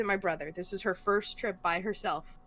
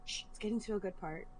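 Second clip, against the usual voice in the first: softer, hushed shushing, gripped by the TV; shushing mom; 3 semitones lower, 6 dB quieter than usual. Retold or imitated. Mom on the phone hushing her daughter during TV, softly. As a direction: shush them, you're glued to the show. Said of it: "She goes".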